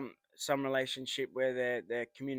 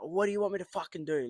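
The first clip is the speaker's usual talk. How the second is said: retold exasperation, higher and fast; mock-exasperated comeback, pitched up; exasperated retort; 5 semitones higher, faster than usual. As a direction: throw it back, quick and frustrated. Retelling his frustrated argument with partner.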